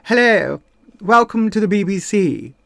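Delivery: lightly put-on old BBC announcer English; a polished Received English greeting to listeners; Received English accent. Shown as a demonstration. Speech therapy pupil showing the trained-in accent, Received English. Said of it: "giving me this wonderful sort of".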